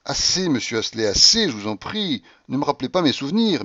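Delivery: une rage contenue, à peine jouée; «assez» lancé avec une colère légère. Acted. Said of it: "m'écriai-je avec rage". (un soupçon d'emportement)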